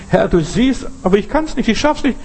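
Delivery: rising, breaking plea to the Lord; desperate plea. Acted. Desperate prayer acted out.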